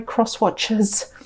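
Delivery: soft unvoiced whisper, slow; whispered aside. Real, not acted. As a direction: whisper it as a hushed apology. Whispered aside to angry viewers.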